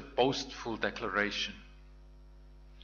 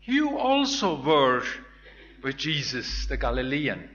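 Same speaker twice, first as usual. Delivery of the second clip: put-on accusing servant girl; 7 dB louder than usual.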